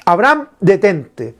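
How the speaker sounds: slow, eased-down repeat of the call. Retold or imitated. God repeats to Abraham, slow and gentle. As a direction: soften and slow the second call. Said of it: "Dios le dice".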